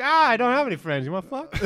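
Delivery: high, loud mock voice; mock girl voice. Acting out the girl's reply.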